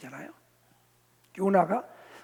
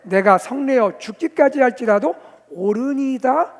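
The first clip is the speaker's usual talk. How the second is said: loud, raised, drawn-out delivery; emphatic reading; 5 semitones higher, 9 dB louder than usual. Acted. Preacher reading the prophet's answer to God, emphatically. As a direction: read it out forcefully and slowly.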